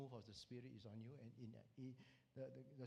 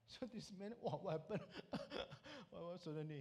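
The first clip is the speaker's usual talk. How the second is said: higher voice breaking into laughs; laughing bewilderment; 4 semitones higher than usual. Real, not acted. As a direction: laugh through the astonished retelling. Laughs while telling man's bewilderment.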